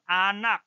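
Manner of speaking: anak with open A at start and end; anak, a teacher's careful Indonesian open A; Indonesian pronunciation. Shown as a demonstration. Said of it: "It can also appear at the beginning".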